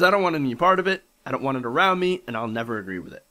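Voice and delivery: lightly mocking Tennessee accent, starting quick and loud. Host quotes the store owner, mock Tennessee accent. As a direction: imitate a stubborn store owner with a hint of Tennessee. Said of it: "has the same accent".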